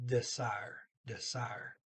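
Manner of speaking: "desire" said as "deh-SAR", no T; Norwegian pronunciation. Shown as a demonstration. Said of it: "okay, they pronounce it".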